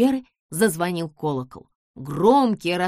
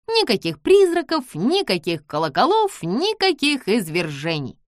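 relieved cheer; 5 semitones higher, 5 dB louder than usual. Acted.

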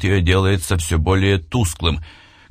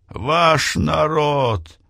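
high, slow, laughing scornfully; hysterical laugh; 9 semitones higher, much slower than usual. A narrator's reading. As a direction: spit it out with a crazed laugh. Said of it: "истерически расхохотался".

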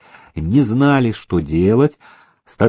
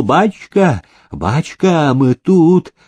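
shouting through the door; 4 semitones higher, slower than usual. Acted. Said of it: "закричал".

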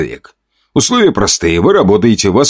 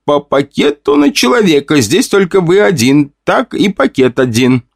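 higher, stern, final rule; stern woman; 8 semitones higher than usual. A narrator's reading. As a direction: repeat the rule, unbending. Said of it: "сказала строгая женщина".

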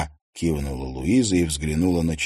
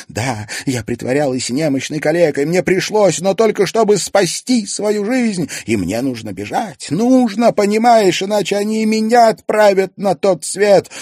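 sobbing; 13 semitones higher, 5 dB louder than usual. A narrator's reading. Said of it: "Ксения вдруг разрыдалась".

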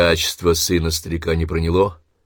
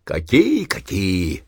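mild cursing start; much slower than usual. Acted. Dying old man starts cursing at wife, then breaks off. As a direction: start to swear, then choke it off. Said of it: "Заматерился было Семён Кузьмич".

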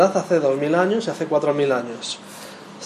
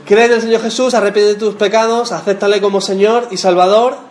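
mock formula; 4 semitones higher, 5 dB louder than usual. Mocking quick gospel formula.

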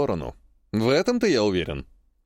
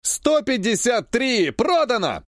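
booming, slow auctioneer call; 8 semitones higher, slower than usual. Acted. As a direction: sell it off like an auctioneer. Auctioneer closing a sale.

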